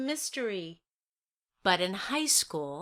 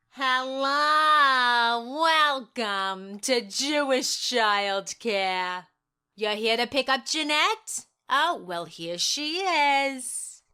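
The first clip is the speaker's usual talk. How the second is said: receptionist voice; 3 semitones higher, 4 dB louder, slower than usual. Acted. Childcare worker greeting.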